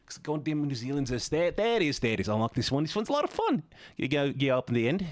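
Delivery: attempted New Zealand accent, rising at the end. Shown as a demonstration. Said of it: "I try to remember how New Zealand goes".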